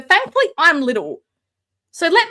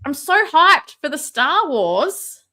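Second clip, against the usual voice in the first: excited; slower than usual. Real, not acted. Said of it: "just so excited for Star Wars".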